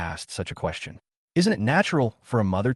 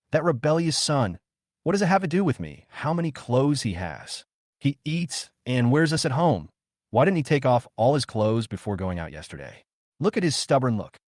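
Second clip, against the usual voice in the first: sarcastic; 3 semitones higher than usual. Acted. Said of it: "The sarcasm in her tone".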